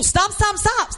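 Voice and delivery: high, urgent stop, stop; urgent hushing. Acted. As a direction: hush a weeping crowd. Levites hushing the crowd.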